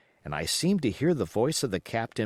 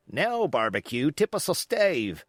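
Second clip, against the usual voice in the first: calling out, rising much higher; sailor's call; 4 semitones higher than usual. Acted. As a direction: urge the cook to sing. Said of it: "cried one voice".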